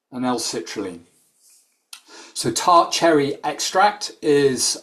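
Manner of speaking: measured delivery with clear pauses between phrases; slow it down for the translator, phrase by phrase; careful, spaced-out explaining; deliberately slowed down. Real, not acted. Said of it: "I will slow it down".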